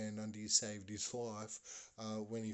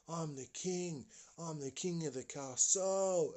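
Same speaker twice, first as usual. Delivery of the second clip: put-on boastful child king; 5 semitones higher than usual. Boy atop the cubby house, crowing proudly. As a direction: crow it in a higher voice. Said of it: "he's standing up and he's going".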